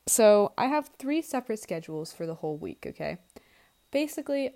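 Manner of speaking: usual speaking voice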